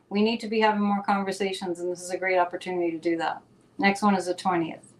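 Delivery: slightly winded talking; out of breath. Real, not acted. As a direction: talk short of breath. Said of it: "I'm out of breath".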